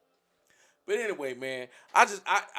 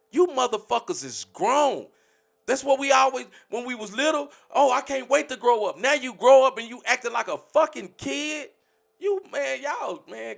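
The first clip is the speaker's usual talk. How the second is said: raised, higher, louder scolding; angry shouting; 6 semitones higher, 7 dB louder than usual. Real, not acted. Ranting at his community about acting like kids, loud anger. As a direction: let him have it, fed up and loud.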